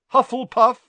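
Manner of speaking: loud, high announcement; shouted proclamation. A narrator's reading. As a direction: shout the verdict to the hall. Hat proclaims house.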